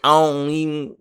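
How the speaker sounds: "I don't" blurred into "ion" before "even"; "I don't" with the d and t swallowed; quick slang. Shown as a demonstration. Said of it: "it's just quick".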